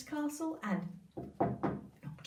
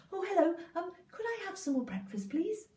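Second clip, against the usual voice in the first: put-on higher, polite boy voice; sweet request; 7 semitones higher than usual. Jack asking the giant's wife for breakfast, high and sweet. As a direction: ask it sweetly.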